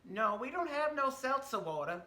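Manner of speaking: a flat Southern no; waitress turning down the order in a Southern accent. Retold or imitated. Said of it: "my Southern accent of that woman".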